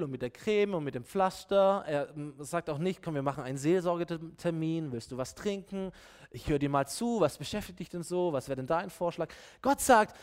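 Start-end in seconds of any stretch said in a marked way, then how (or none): 3.0-9.3 softer, gently solicitous voice; mock soothing counsellor. Offering a counselling appointment and a drink, mock gentle. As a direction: imitate a kindly pastoral listener.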